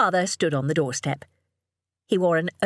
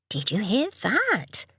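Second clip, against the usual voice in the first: coaxing mother; 5 semitones higher, slower than usual. A narrator's reading. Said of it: "Jo said to Iris".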